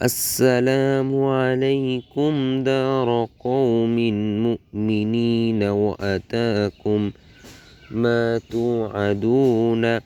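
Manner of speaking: slow, measured reciting with stretched vowels; dua recitation. Shown as a demonstration. Teacher models the joined phrase for learners, slow recitation. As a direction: join the syllables into a drawn-out recitation.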